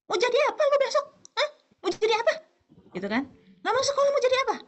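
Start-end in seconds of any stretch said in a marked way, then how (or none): 0.1-2.3 much higher, louder scolding yell; furious mother. Acted. Mother yelling at son who refuses school, furious. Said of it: "kita kan ngamuk kan". 3.6-4.6 much higher, louder scolding yell; furious mother. Acted. Mother yelling at son who refuses school, furious. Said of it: "kita kan ngamuk kan".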